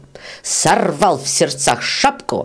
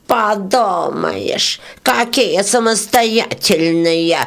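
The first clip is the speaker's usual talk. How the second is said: squeaked; 4 semitones higher, much slower than usual. Acted. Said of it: "пропищала жужелица".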